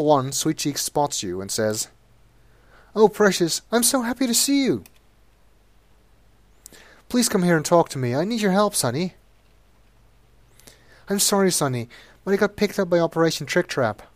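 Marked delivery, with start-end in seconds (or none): 2.9-14.0 much higher, sugary pleading voice; pleading hooker. Acted. Sweet Cheeks begs Sonny from her cell, high and sugary. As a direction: coo at him to win his help.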